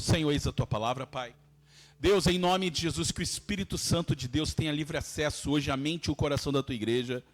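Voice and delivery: earnest prayer. Real, not acted. Leads prayer before the sermon.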